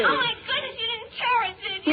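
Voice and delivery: high, alarmed exclamation; shocked dismay. Acted. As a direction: blurt it out in alarm. Prank caller shocked at torn homework.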